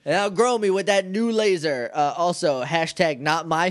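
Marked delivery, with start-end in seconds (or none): 0.0-1.9 mock Rita. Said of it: "she's like".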